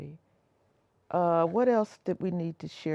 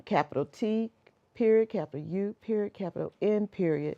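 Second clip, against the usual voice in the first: dictating; 4 dB quieter than usual. Real, not acted. Spelling out the letters for viewers.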